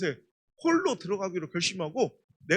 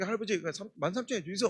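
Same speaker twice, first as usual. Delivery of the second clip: put-on Gyeongsang accent; 6 dB quieter than usual. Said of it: "경상도".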